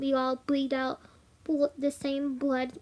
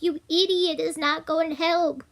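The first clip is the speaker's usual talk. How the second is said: exasperated; 3 semitones higher, 5 dB louder than usual. Retold or imitated. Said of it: "And I'm like".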